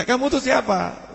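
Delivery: put-on the old man marvels and asks the boy; elder asking. (orang tua bertanya pelan, nada tinggi)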